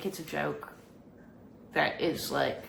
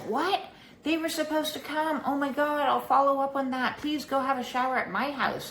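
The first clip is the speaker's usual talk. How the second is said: much higher, alarmed and apologetic; shocked concern; 8 semitones higher than usual. Retold or imitated. Landlord hearing there's still no hot water, shocked. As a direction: jump up in surprise, then rush to help. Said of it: "And she's like".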